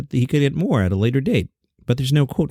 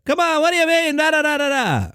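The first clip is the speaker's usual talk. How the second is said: much higher, exasperated mock-angry Seinfeld voice; half-ass angry Jerry Seinfeld. Host showing his half-ass angry Seinfeld impression. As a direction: ham up a slow-burn exasperated rant. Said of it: "I do the angry Jerry, the slow burn Jerry".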